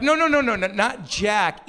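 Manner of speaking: high-pitched string of no's; mock-flustered parent; hasty correction. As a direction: jump in to correct, voice shooting up. Parent hastily correcting the child.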